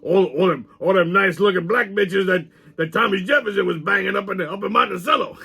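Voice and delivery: lightly voiced bawdy sidekick; Pops. Sidekick misreading the host's plan, lightly put-on bawdy voice. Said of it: "I consulted my trusty sidekick, Pops".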